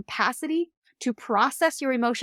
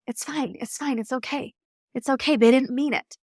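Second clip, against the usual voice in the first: smiling brush-off; 3 semitones higher than usual. Retold or imitated. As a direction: play it down with a smile, a mild mock reassurance. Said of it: "they're telling it with a smile on their face".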